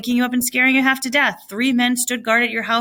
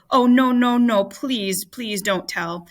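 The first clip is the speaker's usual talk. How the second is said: panicked plea; slower than usual. Acted. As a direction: plead urgently, then trail off. Huck begging, panicked.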